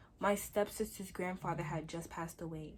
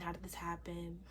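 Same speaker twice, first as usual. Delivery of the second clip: quoted whisper; 2 semitones lower, 9 dB quieter than usual. Retold or imitated. Teacher questioning the students.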